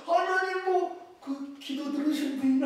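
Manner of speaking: high, hesitant fumbling answer; flustered, blanking out. Retold or imitated. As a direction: grope for an answer with a mind gone blank. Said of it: "갑자기 멍하지더라고요".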